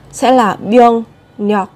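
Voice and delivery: a teacher slowly modelling "biếng nhọc" with the R shifted to N; slow teaching demo. Shown as a demonstration. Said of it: "biến đổi R thành N nhá".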